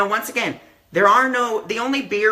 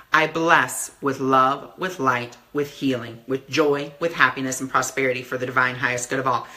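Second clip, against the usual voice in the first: lower, softer, like a quiet prayer; softly spoken blessing; 5 semitones lower than usual. Retold or imitated. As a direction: bless each thing gently under your breath. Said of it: "I say".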